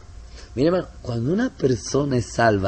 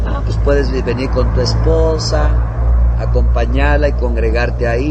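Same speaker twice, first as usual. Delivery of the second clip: retold loud advice; 9 dB louder than usual.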